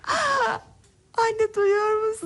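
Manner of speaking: can't believe what she hears; excited amazement. Acted. Astonished at the child speaking. (heyecanlı şaşkınlık)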